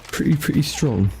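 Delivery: light impersonation of a boastful influencer; Andrew Tate. Pretend. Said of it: "sounded a bit like Andrew Tate".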